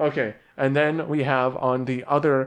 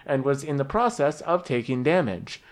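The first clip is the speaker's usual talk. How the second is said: slow, deliberate story-so-far narration; game master recap; slower than usual. Acted. Game master recapping the last session to players, measured storytelling. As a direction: recap the cliffhanger with measured suspense.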